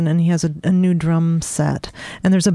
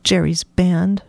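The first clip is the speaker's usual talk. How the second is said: sniffed; slower than usual. Acted. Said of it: "she sniffed".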